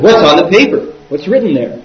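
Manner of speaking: imitated pushy questioning; insistent. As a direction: press for an answer as the insistent monk. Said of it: "and he insisted".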